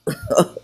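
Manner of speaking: short high chuckle; laugh. Real, not acted. Amused at her own aside, a quick chuckle.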